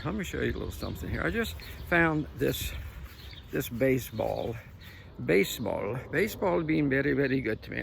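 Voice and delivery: put-on light Latino accent on "Baseball"; joking Latino accent, "very good to me". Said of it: "I can use that to Latino accent".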